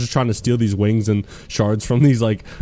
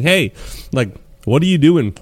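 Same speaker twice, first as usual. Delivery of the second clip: Nessie quote; 4 semitones higher than usual. Retold or imitated. Nessie voiced in retelling.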